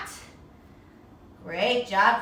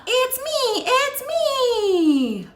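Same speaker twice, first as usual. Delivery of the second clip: high, louder cartoon duck voice; giddy little duck announcing itself; 12 semitones higher, 6 dB louder, much slower than usual. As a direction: play the duck revealing itself. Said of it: "says the duck".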